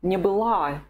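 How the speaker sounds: не была with the stress on the last A of была. Shown as a demonstration. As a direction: let не fall away and lean on была. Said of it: "The only form is the feminine one".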